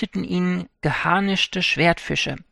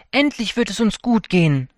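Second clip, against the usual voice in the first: higher, louder glad cry; joyful; 5 semitones higher, 4 dB louder than usual. Acted. Poor fisherman to himself, overjoyed at his catch. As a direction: burst out with relief and joy. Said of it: "sagte sich Urashima freudig".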